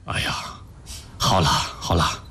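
low, slow comforting; soothing. Acted. Husband comforts his tearful wife, soothing. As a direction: gently settle someone who is upset.

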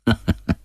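a brief, sudden chuckle; short laugh. A narrator's reading. Man cornered by a company vote, a sudden short laugh. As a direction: let out a short laugh to yourself. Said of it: "他突然笑了笑".

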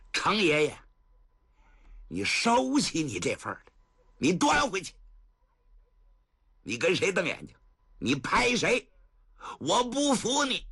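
stubborn back talk, rising at the end; defiant retort. Acted. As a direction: throw his anger back at him. Defiant young man talks back. (不服气地顶嘴)

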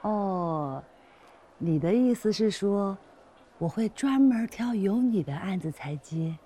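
drawn-out, deliberate questioning; slow realisation. Acted. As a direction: spell out his implication slowly. Realises what he is implying. (拖慢语速，恍然反问)

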